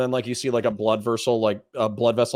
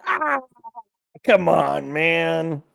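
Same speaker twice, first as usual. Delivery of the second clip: much higher and louder, drawn-out, then easing down; real outburst of disbelief, fading; exasperated shout; 12 semitones higher, 8 dB louder, much slower than usual. Real, not acted. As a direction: yell at the screen then sag. Host reacting in disbelief to clip.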